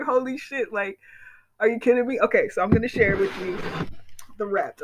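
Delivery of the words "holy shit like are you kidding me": amazed disbelief. Retold or imitated. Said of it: "And I was just like".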